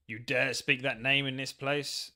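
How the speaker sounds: lightly voiced indignant ghost; mildly hammed-up outrage; a hint of menacing challenge; angry villain. Voicing angry Necrovarus from game.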